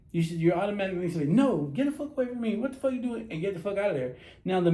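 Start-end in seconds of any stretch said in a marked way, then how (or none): 1.3-3.3 higher-pitched indignant refusal; acted angry rejection. Woman telling the man to get away, acted indignation. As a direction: act out pushing a stranger away.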